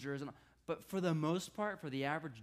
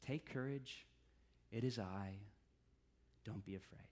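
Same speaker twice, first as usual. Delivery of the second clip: gentle reassurance; 8 semitones lower, 7 dB quieter than usual. Retold or imitated. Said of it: "instead he just says".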